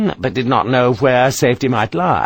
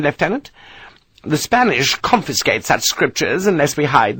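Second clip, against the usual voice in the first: higher, imperious matron voice; pompous English matron, a little higher; haughty old lady; 5 semitones higher than usual. Acted. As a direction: talk down to him like a grand dame. Mrs Parker explaining.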